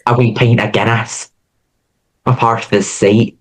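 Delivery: rough Scottish accent attempt. Shown as a demonstration. Co-host showing off accents, in an attempted Scottish accent. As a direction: try a few stock phrases in Scottish. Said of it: "I can do a Scottish accent".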